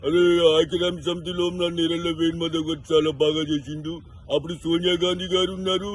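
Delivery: lightly voiced rambling senior politician; a hint of a folksy old leader praising the guru; V. Hanumantha Rao voice. Mimic at the memorial lightly imitating a senior politician. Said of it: "VH హనుమంతరావు senior నేత వారి voice ని".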